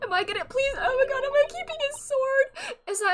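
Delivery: high, loud laughing squeal; excited squeal. Real, not acted. Streamer asking if she keeps the sword, excited squeal. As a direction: squeal it in giddy disbelief. Giddy disbelief at the game.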